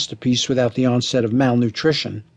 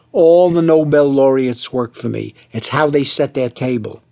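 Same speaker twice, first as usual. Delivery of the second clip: raised, slow intoning. Acted. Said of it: "raising his voice and intoning slowly".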